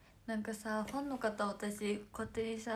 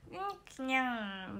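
cat-like sneezes; 2 semitones higher, slower than usual. Retold or imitated. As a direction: sneeze twice like a kitten. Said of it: "みたいな".

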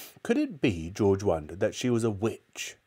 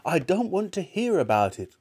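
put-on higher-pitched boy's protest; horrified cry; 9 semitones higher than usual. A narrator's reading. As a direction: beg off in disgust. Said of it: "cried George".

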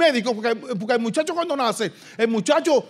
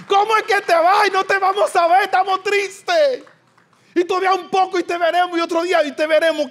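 voicing the disciples; 6 semitones higher than usual. Preacher voices disciples asking Jesus why he leaves. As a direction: plead like a confused follower losing his teacher.

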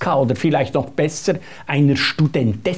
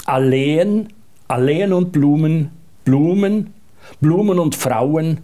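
poem recitation. Shown as a demonstration. Reads the poem aloud for the interviewer, gently recited. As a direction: read the short poem out with measured pauses. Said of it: "Das lautet also so".

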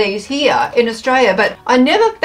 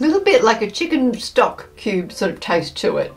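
talking while chewing crisps; crunching snack between words; mouth full of crisps. Real, not acted. Seen 1: Woman holding the bag bites crisps to her mouth throughout.

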